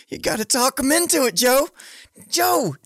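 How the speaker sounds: quoting the line high while laughing; laughing quote. Retold or imitated. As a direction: repeat the line, cracking up with a pitch far above normal.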